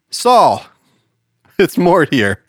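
pigeon voice. Acted. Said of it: "the pigeon looks up to him and says".

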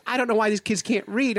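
high-pitched imitated complaint; retold teacher's exasperation; exasperated teacher.

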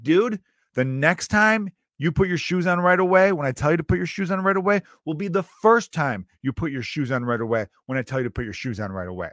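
worked-up lecture that starts high and comes down; mock mad dad. Dad nagging his kid about shoes, mock exasperated. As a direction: reel it off like an exasperated dad, half-joking. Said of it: "when you get, like, mad".

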